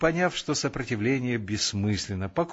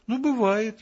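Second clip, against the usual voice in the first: good-natured; 11 semitones higher than usual. A narrator's reading. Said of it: "благодушно сказал старшина".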